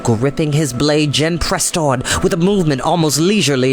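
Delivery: plain reading voice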